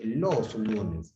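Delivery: "los lunes" said slowly, word by word; slow classroom example; slow teaching demo. Shown as a demonstration. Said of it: "Si yo digo lunes, diré".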